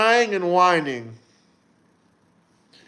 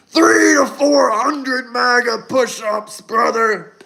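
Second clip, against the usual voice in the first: wrestler voice; slower than usual. Retold or imitated. Repeats the Hulk Hogan bit.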